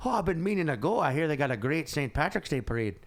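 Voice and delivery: imitated Irish brogue, chatty; rough Irish accent of a cabbie; amateur Irish accent, conversational; Irish cab driver. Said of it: "That's a terrible Irish accent".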